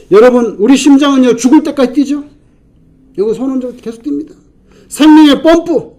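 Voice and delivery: loud, high, impassioned preaching; preaching at full force. Acted. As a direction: drive it home like a revival climax. Preacher climax.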